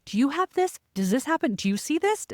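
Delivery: high, urgent questioning; lightly acted eager asking; eager questions. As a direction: pester the husband excitedly. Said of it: "I'm like".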